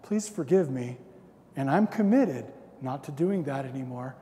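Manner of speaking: mock-serene husband voice; put-on calm. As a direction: apologise sweetly, as if nothing happened. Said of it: "I come out calm".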